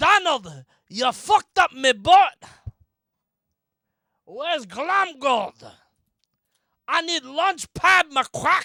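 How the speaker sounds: very loud, high bellow, drawn out and slow. Asked for a Scrooge impression during a story: Scrooge impression. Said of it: "can you do your Scrooge impression".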